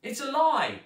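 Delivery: high, loud denial; girl denying. A narrator's reading. Zoe lying to her stepmother, high loud denial. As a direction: cry out the lie. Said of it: "said Zoe".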